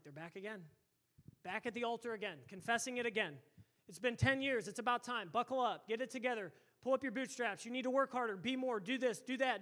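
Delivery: imitated eye-rolling weariness building into nagging; mock exasperation. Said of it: "he's, like, rolling his eyes".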